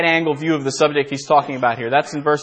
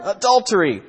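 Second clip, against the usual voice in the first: higher, more outraged mock cry; louder incensed yell; 6 semitones higher than usual. Husband repeats his accusation to the village, rising mock yell. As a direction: push the accusation up a notch. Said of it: "yelled the incensed husband".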